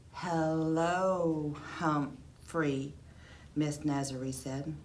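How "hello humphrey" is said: careful learner. Acted. Mom's careful first English.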